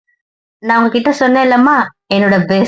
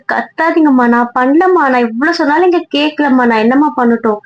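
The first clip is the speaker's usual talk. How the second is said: pleading protest; 3 semitones higher than usual. Acted. Daughter pleading with scolding mother.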